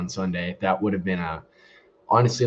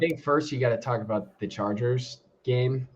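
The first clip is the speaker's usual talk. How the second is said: muffled, boomy headset sound; inside a fishbowl; 3 dB quieter than usual. Real, not acted. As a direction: voice through a dying headset. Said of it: "You sound like you're in a fishbowl".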